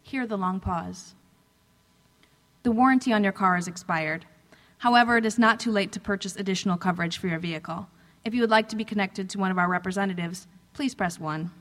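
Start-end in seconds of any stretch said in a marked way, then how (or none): 2.6-11.5 fast, loud robocall recording; automated voice. Pretend. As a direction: rattle it off like a machine. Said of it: "The automated voice droned".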